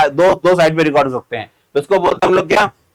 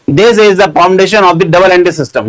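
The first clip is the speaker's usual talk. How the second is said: reads each word out slowly for students to copy; dictating the line word by word; slow dictation; 5 dB louder, much slower than usual. Shown as a demonstration. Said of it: "reads the definition out for dictation". (धीरे धीरे लिखवाते हुए)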